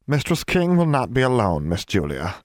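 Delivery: high, trembling elf voice; tremulous. A narrator's reading. House elf reassuring Julia about her mistress, high tremulous voice. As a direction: try to hold back tears. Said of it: "in a tremulous voice".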